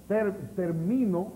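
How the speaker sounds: slow "termino" with weight on MI; ter-MI-no, deliberately spaced; stress on middle syllable. Shown as a demonstration. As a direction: lean slowly on the MI of "termino". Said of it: "no tiene acento".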